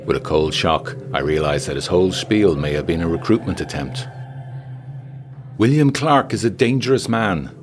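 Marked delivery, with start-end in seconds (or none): 5.6-7.5 raised, high-pitched woman's character voice; urgent warning. A narrator's reading. Fatima warns Ross about Clark, high urgent voice. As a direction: pitch it up to warn him. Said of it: "she said quickly in French".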